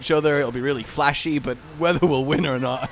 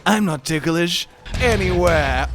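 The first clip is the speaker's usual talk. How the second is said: slow, smug "I'm not ticklish anywhere"; smug cool voice; 2 semitones higher, slower than usual. Retold or imitated. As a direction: say it like wearing shades. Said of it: "Did you put on some shades after saying that?".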